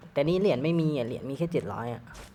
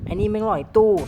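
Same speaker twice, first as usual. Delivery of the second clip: excited repeat; 7 semitones higher, 6 dB louder than usual. Real, not acted. Repeating enemy camping remark.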